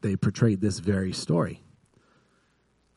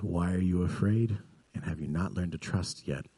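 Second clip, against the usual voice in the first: softer, calm questions; quiet, still questioning; 2 semitones lower, 6 dB quieter than usual. Retold or imitated. Jesus asks the disciples after the storm, quietly. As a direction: ask it gently into the stillness. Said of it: "Jesus spoke in the stillness".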